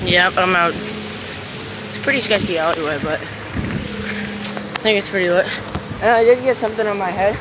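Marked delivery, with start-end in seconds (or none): 0.7-5.4 nervous night vlog whisper. Real, not acted. Dark alleyway, hushed.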